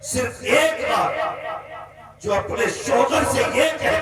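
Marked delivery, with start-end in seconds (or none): 0.1-1.1 slow, deliberate repeat. Shown as a demonstration.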